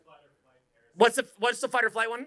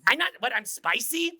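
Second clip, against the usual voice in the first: higher, rising incredulous question; mock questioning; 4 semitones higher than usual. Shown as a demonstration. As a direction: ask it as if taken aback. Acted back-and-forth about spicy.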